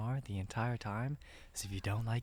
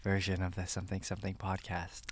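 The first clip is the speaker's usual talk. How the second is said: ASMR whisper. Pretend. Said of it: "do A S M R the entire time".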